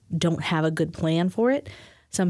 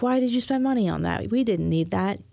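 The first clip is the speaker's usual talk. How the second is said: mildly upset, higher-pitched challenge; a touch of acted indignation, pitched up at first; upset partner; 4 semitones higher than usual. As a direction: play a mildly upset partner questioning a purchase. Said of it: "in the moment you get upset".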